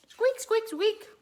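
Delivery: high, loud squeaky dolphin calls; dolphin squeak. Retold or imitated. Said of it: "It's more of a click, whistle, squeak".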